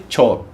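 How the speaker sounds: चोर said with the r barely sounded; soft r in chor. Shown as a demonstration. Teacher to students, चोर said with a silent r. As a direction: keep the r in चोर nearly silent. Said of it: "आर ज़्यादा को चोर नहीं बोलेंगे".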